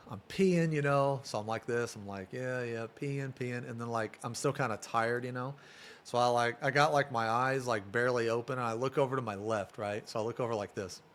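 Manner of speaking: very soft, sleepy murmur; softly recalling the groggy moment; hushed retelling. Retold or imitated. Groggy peeing scene retold hushed.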